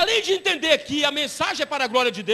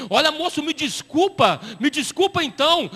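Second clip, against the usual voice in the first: tearful apology; 3 semitones higher than usual. Retold or imitated. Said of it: "ele começou a chorar".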